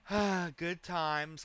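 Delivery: slow, drawn-out mock nostalgia; mock wistful "good times". Streamer mocking the guy's dreamy tone, drawn out slow. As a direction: stretch it out like a fond memory. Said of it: "kinda tone".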